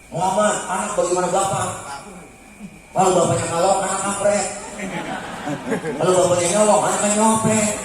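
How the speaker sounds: irritated Jibril. Retold or imitated. An annoyed Jibril urges Muhammad.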